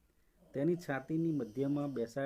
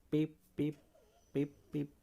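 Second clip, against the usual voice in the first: short, even spoken pips; beep imitation. A narrator's reading. Robot's caution signals beeping as it fails, spoken beeps.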